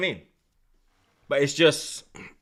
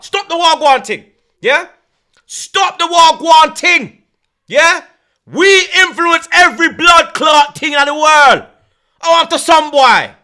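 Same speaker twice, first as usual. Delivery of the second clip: mock shouting; 2 semitones higher than usual. Shouted scolding.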